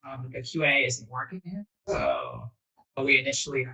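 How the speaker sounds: choppy, breaking-up call audio; glitchy robotic call. Real, not acted. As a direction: voice cutting in and out on a bad connection. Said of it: "your audio is breaking up".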